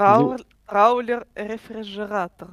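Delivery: burred r in траулер, рефрижератор; says w for r. Real, not acted. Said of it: "Ариша так мило картавит".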